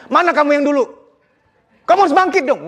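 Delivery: high, pressing pep talk; pushy motivator. Acted. Motivator telling a depressed friend to bounce back, pushy. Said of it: "Jangan yang".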